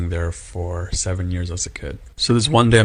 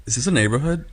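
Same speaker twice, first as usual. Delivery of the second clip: mildly baffled question, pitched up; retold bewilderment, higher voice; confused; 5 semitones higher, faster than usual. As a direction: imitate someone puzzled by what he sees. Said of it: "he looked so confused".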